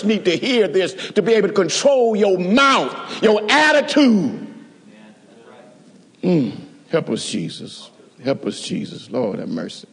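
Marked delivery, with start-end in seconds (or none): 6.2-9.9 softer, half-whispered plea to God; murmured prayer. Real, not acted. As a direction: breathe the prayer under your breath. Murmured prayer mid-sermon.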